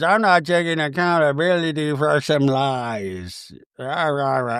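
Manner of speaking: low, mild mock calm; Meredith, calm. Meredith gets up and refuses blame, mock calm. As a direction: refuse without any heat. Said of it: "Meredith just calmly gets up".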